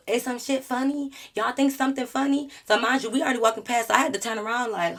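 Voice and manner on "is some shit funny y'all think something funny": mocking Gator. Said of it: "Gator like".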